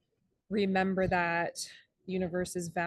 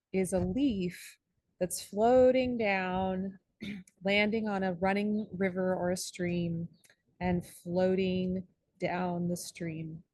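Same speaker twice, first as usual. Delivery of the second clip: guided meditation. Acted. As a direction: paint the image unhurriedly, pausing between phrases. Leads the leaf meditation.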